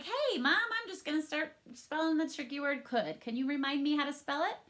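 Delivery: high, lightly voiced kid asking mom; voicing a child. Child asking mom to help spell could. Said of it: "child asking mom, voiced".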